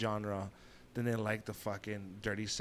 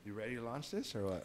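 whispering; 9 dB quieter than usual. Real, not acted. Whispering before launching show.

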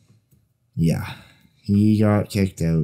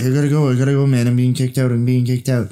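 slightly raised, insistent retelling; mock urgent protest; 4 semitones higher, 3 dB louder, faster than usual. Friend retells ejected man's phone call, urgent imitation. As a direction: imitate someone insisting they must go.

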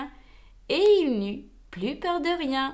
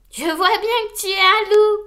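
high, loud jolly voice; chuckling; 8 semitones higher, 9 dB louder than usual. Acted. Gros Louis teases Wolf, jolly and laughing. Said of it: "rigola Gros Louis".

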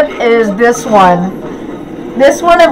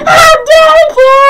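high, loud mock outrage; outraged shout; 3 dB louder than usual. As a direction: yell it in hammy fury. Outrage at dog killed.

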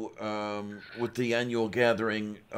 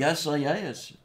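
put-on drunk Alabama accent; 4 semitones higher, slower than usual. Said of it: "sounding like a drunk, uh, Alabaman".

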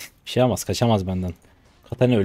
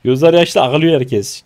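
loud, high-pitched mocking complaint; exasperated rant; 10 semitones higher, 9 dB louder, slower than usual. Real, not acted. Streamer ranting that both teams are crying, loud exasperation. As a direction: belt it out high, piling up the complaint.

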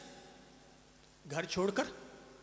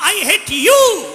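put-on high, loud and slow, a child yelling in anger; angry child screaming at the forest, high and loud; angry child shouting; 10 semitones higher, 12 dB louder, much slower than usual. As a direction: scream it out at his mother, drawn out and furious. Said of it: "जैसे ही बच्चे ने कहा".

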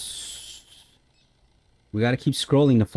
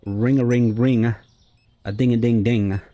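imitating cash registers. Player savouring the sound of the registers, imitated ringing. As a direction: chime it out like ringing tills. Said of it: "listen to the registers".

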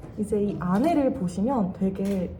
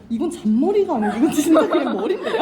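laughing tease; 5 semitones higher, 9 dB louder than usual. Real, not acted. Teasing student about her hair.

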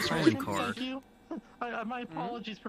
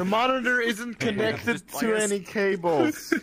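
calling out loudly; 2 semitones lower, 10 dB louder than usual. Acted. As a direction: shout for the teacher's attention. Loud call to teacher.

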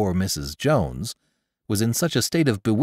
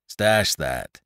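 angry; 2 semitones lower than usual. A narrator's reading. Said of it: "cried Lumsden angrily".

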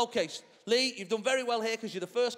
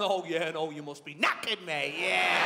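seething brother; 2 semitones lower than usual. Retold or imitated. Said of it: "I can hear him seething".

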